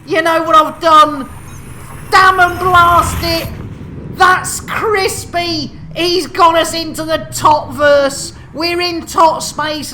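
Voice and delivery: high, loud hammed-up exclamation; dramatic alarm. Host discovering they're in the tot verse, hammed-up alarm. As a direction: cry out at the mock disaster.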